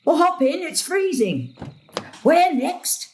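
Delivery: falsely cheerful. Acted. Gran hiding the letter from her daughter, falsely bright. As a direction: sound breezy to hide what you read.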